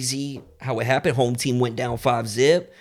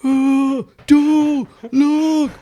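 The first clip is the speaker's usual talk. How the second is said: high yell; 8 dB louder, much slower than usual. Retold or imitated. Running with hot dogs, yelling.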